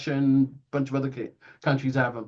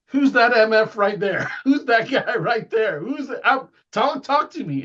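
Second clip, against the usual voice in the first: worked-up retold demand, higher pitch; excited; 6 semitones higher than usual. Airman pressing the AWACS technicians about the mystery craft, excited. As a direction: fire off excited questions, pitched up. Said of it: "I was so excited, I actually said".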